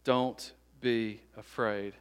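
slow, spaced-out words; deliberate quoted reassurance. Acted. Preacher quoting Jesus to the frightened, deliberate reassurance. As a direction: let each phrase land slowly. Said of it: "He says".

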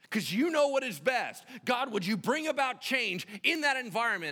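high, loud, emphatic preaching; forceful sermon delivery with stretched key words. Real, not acted.

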